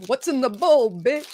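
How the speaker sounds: Andrew Dice Clay impression. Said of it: "That's Andrew Dice Clay".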